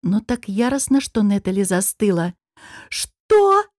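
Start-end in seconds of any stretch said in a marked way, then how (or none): 2.9-3.7 sudden high squeal; shriek. Acted. Woman shrieks at the seated man in outrage. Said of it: "взвизгнула".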